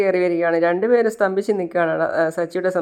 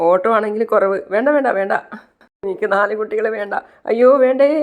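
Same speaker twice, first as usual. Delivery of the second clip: mock wailing; 4 semitones higher than usual. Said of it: "നിലവിളിച്ച് കരയാണ്".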